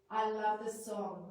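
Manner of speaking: slow, loud and heartfelt; really mean it; emphatic exclamation. Shown as a demonstration. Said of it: "it's the statement that you really mean".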